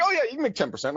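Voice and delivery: dad offering deal. Retold or imitated. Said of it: "it's like".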